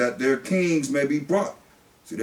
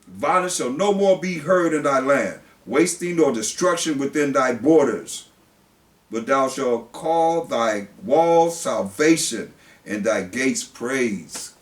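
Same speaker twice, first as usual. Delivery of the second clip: slow, louder preacher's reading of scripture; 3 dB louder, slower than usual. Acted. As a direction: proclaim the verse from the pulpit. Reads scripture from the pulpit.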